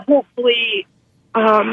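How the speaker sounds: fighting back tears as she speaks of hope; choking up. Real, not acted. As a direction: voice catching with real tears mid-sentence. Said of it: "I'm gonna get emotional".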